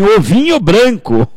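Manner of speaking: "Ovinho" pitched high as a playful correction; stress on OVINHO. Retold or imitated. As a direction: lift and stretch "Ovinho" to clear up the mix-up. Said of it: "Eu não tô falando vinho branco". (ênfase aguda e brincalhona em "Ovinho")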